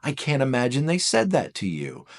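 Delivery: high, gasping sympathy, as if hearing bad news; shocked sympathy. A friend reacting to a four's story, gasping in sympathy. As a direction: gush with shocked concern. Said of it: "looking for somebody to say".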